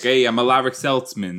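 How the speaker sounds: put-on loud, hearty Boston accent introduction. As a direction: introduce yourself like a guy from Boston. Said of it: "He should have a stronger accent".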